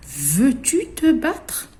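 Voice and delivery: high, loud challenging ladybug; ladybug picking a fight. Acted. A ladybug daring a classmate to fight, high and challenging. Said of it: "une question avec un point d'interrogation".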